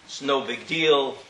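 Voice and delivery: soft, slow shrug; indifferent. Retold or imitated. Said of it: "Kimei sheino margish".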